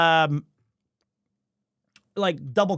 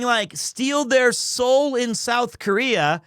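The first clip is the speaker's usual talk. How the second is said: slow, careful repeat for someone who doesn't follow; slow and deliberate; 3 semitones higher, slower than usual. Shown as a demonstration. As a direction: spell it out slowly, word by word. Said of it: "So, so she's saying".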